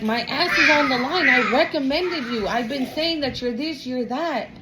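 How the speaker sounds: scolding friend. Retold or imitated. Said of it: "So he's like".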